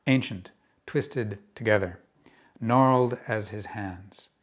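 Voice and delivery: measured poem reading with deliberate pauses; projected openings, phrases easing down at the close; poetry reading. Acted. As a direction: read it out line by line, letting images land. Reads own poem aloud.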